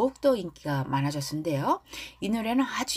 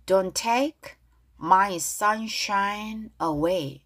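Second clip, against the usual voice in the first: slow, clearly spaced English lyric lines; pronunciation model reading; much slower than usual. Shown as a demonstration. Teacher leading learners in reading lyrics aloud, slow pronunciation model. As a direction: model each phrase slowly for learners to repeat. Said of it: "큰 소리로 발음 따라하겠습니다".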